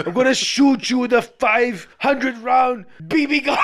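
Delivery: laughing mock shout; hammed-up action-hero yell; mock Arnold threat. Host mocking Arnold, laughing mock shout.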